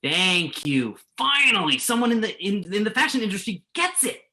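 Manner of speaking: finally someone gets it, let it burst out; excited relief. Acted. Interviewer cheering the model's honest answer, excited.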